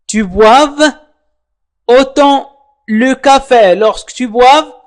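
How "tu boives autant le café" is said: slow model phrase. Shown as a demonstration. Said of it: "teacher models French phrase".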